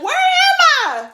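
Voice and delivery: high, bewildered laughing question; just waking, disoriented; confused. Retold or imitated.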